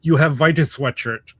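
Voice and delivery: mock European accent; generic European accent. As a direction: imitate a European fan in halting English. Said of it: "this is my generic European accent".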